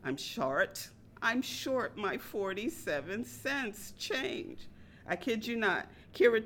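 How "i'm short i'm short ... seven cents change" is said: slow, measured and even; calm, slow. Retold or imitated. Customer calmly repeating her complaint to the waitress, slowly. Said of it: "I calmly said".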